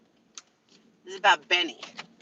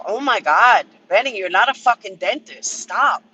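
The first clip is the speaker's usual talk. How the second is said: exasperated outburst; 6 dB louder than usual. Real, not acted. Venting exasperation at Benny.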